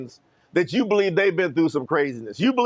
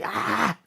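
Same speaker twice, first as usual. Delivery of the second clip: held-back imitation scream, softer than talk; mock scream; 3 semitones higher, 5 dB quieter than usual. Stepmother screaming at her stepson, mock scream. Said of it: "screaming at me".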